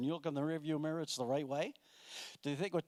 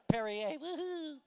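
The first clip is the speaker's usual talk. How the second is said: mock cheer; 10 semitones higher, slower than usual. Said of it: "mock French toast".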